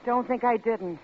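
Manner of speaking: ordinary delivery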